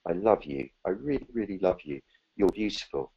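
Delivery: soft, fading loving murmur; tender whisper-in-the-ear. Acted. The big presence speaking lovingly into your ear, soft and tender. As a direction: say it close and tender, like into someone's ear. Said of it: "just saying in your ear".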